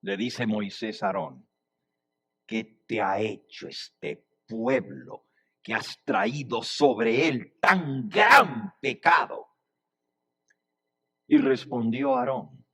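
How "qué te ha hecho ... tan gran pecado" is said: measured accusation building to "gran"; stern reproach. Acted. Moses confronting brother Aarón face to face, stern. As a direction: start restrained, then slow and punch "tan gran".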